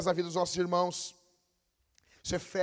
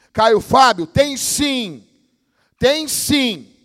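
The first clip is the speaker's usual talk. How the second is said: loud, higher insistent shout; preaching shout; 5 semitones higher, 12 dB louder, much slower than usual. Real, not acted. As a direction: hammer the point home. (gritando com ênfase, mais alto)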